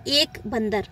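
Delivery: slow, clear translation; slow gloss. Shown as a demonstration. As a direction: explain the meaning slowly to students. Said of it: "a monkey". (धीमा, स्पष्ट अर्थ बताना)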